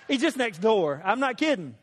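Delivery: high, loud laughing telling. Real, not acted. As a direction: laugh while you insist it's true. Laughing at his own story.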